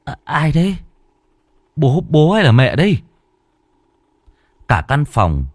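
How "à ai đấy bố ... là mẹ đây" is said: high, frightened questioning into the dark; trembling fear. Acted. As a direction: ask who's there, shaking with fear. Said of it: "Phùng lại run run".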